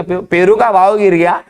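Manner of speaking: brisk imitated seller's announcement; hawking vendor. Seller answers what has fallen, lightly imitated hawker's call. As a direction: announce it like a fruit hawker, at normal pace. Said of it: "जोर जोर से चिल्ला रहा है".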